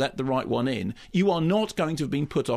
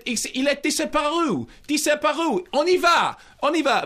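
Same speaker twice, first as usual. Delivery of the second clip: higher, hammed-up French guide, louder at the end; mock French; 11 semitones higher, 4 dB louder than usual. Co-host lampooning a French museum guard in mock French. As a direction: bluster in theatrical French like a flustered museum guard. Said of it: "says it in French".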